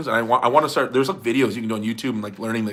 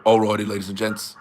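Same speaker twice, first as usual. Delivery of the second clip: deeper-voiced video intro impression; low mock Aussie presenter; Ryan Bowen; 5 semitones lower than usual. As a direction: drop the voice low for the catchphrase. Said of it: "it is deeper voice".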